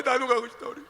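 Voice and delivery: put-on crying child; whimpering child. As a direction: whimper it through tears. Child pleading to mother.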